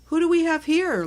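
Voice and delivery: high, bright welcoming question; cheerful greeting. Acted. Laura's mom greeting Cookie at the door, high and cheery. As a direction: sing it out to a new guest.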